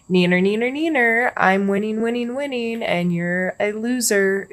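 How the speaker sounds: sing-song schoolyard taunt; neener-neener teasing. Retold or imitated. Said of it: "I feel like he's taunting them".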